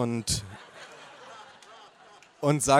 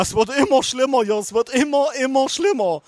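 wailing grandma; 11 semitones higher, 4 dB louder than usual. Acted. Grandma keeps lamenting.

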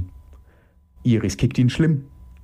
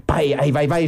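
shouting; 5 semitones higher than usual. Acted. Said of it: "schreit Mike".

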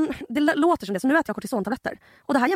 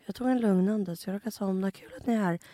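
groggy half-asleep; 2 semitones lower, 7 dB quieter than usual. Retold or imitated. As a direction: mumble like just woken from the dead. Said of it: "går upp som från de döda". (yrvaket, dåsigt och tyst)

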